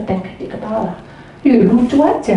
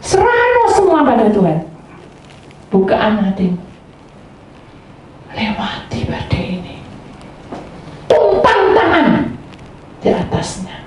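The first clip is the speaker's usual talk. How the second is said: preaching. Acted. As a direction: exhort the congregation with raised pitch.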